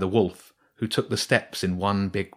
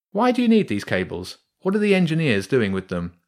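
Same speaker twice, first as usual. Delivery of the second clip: much higher pressing questions; a boy pushing for answers; curious boy; 5 semitones higher, 3 dB louder than usual. Acted. James questions the rats.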